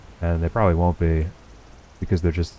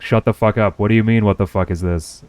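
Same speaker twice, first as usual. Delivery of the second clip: mock anger; 3 semitones higher, 5 dB louder than usual. Shown as a demonstration. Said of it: "I can be angry at you too".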